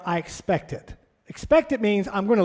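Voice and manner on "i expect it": softer, offhand, weight on "I"; loose expectation. Shown as a demonstration. Coach showing a weak expectation, softer and offhand. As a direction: toss it off, leaving it up to her. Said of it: "There's a difference in me telling Morgan".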